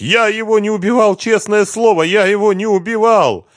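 very high, wailing denial; tearful. A narrator's reading. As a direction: protest desperately through tears. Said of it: "заплакал Лихоносов".

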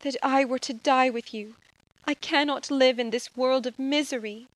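a quiet cry of despair, pitched high; grieving Elizabeth. Acted. Elizabeth begs to die with Justine, hushed and anguished. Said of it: "cried she".

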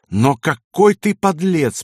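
slow, high, emphatic condemnation; contemptuous. A narrator's reading. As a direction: throw it in his face with disgust. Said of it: "повторила Кайса и плюнула в лицо".

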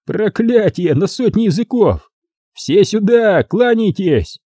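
high mocking proclamation; clowning Vincent. A narrator's reading. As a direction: ham it up like a herald. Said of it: "кривляние Винсента". (кривляясь, издевательски)

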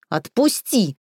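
choking plea, falling; wind knocked out. Acted. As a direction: gasp it out while choked. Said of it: "задыхаясь, прохрипела Таня".

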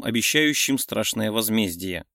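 plain reading voice

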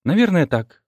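usual speaking voice

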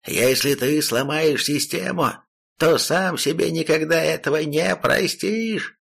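warning emperor. Acted. Fallen emperor warns the demon.

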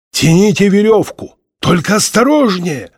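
high, projected command; urgent shout from below, lightly acted; calling up. A narrator's reading. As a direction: call instructions up to the rope team.

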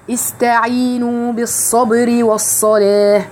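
slow recited phrase; slow recital; tajweed demo. Shown as a demonstration. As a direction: chant slowly, holding the س. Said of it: "خلي بالكم من السين".

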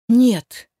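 резкий громкий выкрик; отчаянное «нет»; испуганный крик. A narrator's reading. Мать видит песок на дочери. (мать в ужасе вскрикивает)

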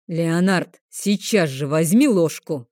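a hint of a rumbling dragon bark; thundering order. Dragon mentor orders the boy, mild booming demand. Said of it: "громыхнуло на всю столовую".

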